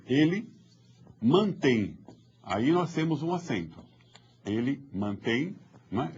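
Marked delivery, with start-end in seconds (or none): none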